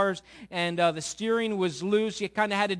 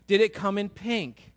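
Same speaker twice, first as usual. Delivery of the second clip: lightly voiced teasing brothers, louder; slow, sing-song big-brother ribbing; teasing the new car in the driveway; mocking brothers; 4 dB louder, slower than usual. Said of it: "And they're like".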